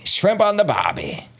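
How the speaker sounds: high, hammed-up Australian accent; bad Australian accent. Shown as a demonstration. Host retrying a stock Aussie phrase, exaggerated Australian accent. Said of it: "my Australian accent is not gonna be good".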